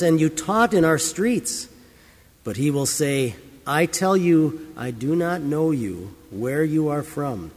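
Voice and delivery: measured, solemn Bible reading; scripture reading. Acted. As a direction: read the Gospel aloud to the congregation. Scripture reading before the sermon.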